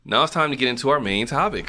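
upbeat countdown host announcement; radio host voice. Shown as a demonstration. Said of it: "There you go, Casey Kasem".

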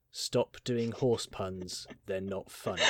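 flat, slow and unimpressed; deadpan. Retold or imitated. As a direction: say it totally deadpan. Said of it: "in the most deadpan voice ever".

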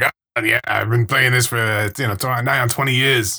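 lightly put-on old New Yorker accent; a hint of Italian New Yorker; imitated New York accent. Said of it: "when you did it on the phone, you were like".

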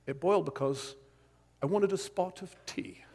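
soft, lightly voiced old grandfatherly figure; John Lennox. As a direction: gently imitate a grandfatherly don with a put-on accent. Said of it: "he's like this old grandfatherly figure".

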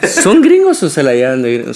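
teasing question with a laugh. Real, not acted. Teasing the hosts about acting gringo, laughing. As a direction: laugh as you poke fun.

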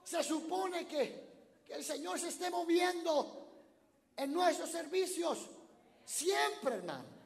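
loud, high, slow shouted preaching; pastor's fervent shouted appeal; preaching at full force. Real, not acted. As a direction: hammer each phrase home. Preaching climax.

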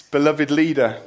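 ordinary delivery

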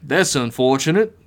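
understated, sighing disappointment; lightly resigned villain. Acted. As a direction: say it with a mild sigh. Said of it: "Billiams sighed".

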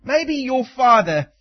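a hint of a sly tempter, coaxing; lightly voiced devil sowing doubt; Satan's taunting voice. Preacher voicing Satan tempting hungry Jesus, sly. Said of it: "He says it like this".

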